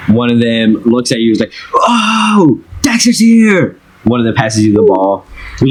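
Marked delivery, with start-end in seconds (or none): 1.7-3.8 put-on very high-pitched excited kid calling out. Soccer kid spots Dexter arriving, excited. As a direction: call it out in a high child's voice.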